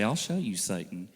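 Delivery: low, hushed mock threat; veiled threat through an angry smile, imitated. Wife imitated warning she'll get even later, angry smile. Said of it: "I'm angry" smile".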